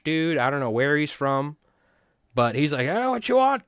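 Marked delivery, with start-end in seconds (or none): 2.9-3.6 high shouted call of a booth seller; yelling vendor. Retold or imitated. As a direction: bark it at a customer walking by. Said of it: "yelling at you".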